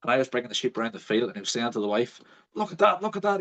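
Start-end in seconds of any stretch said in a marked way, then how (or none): 2.5-3.4 high, wondering repeat; astonished farmer. Retold or imitated. Farmer whispering amazement to his wife, high and astonished. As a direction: gasp it out in disbelief.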